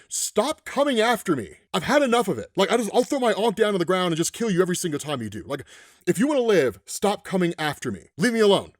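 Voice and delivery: worked-up, emphatic gamer rant; playfully fed up, pressing each demand; mock-exasperated rant. Gamer ranting at Spider-Man players who keep chasing him, mock exasperation.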